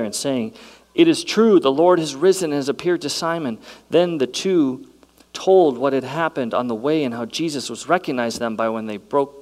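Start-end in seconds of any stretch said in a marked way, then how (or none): 0.9-3.6 excited. Acted. Disciples' excited report, quoted.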